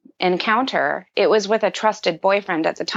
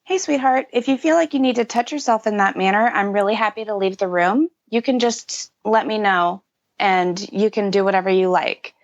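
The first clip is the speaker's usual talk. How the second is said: calm gentle voice. Retold or imitated. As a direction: gently reassure a young child. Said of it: "and very calmly say".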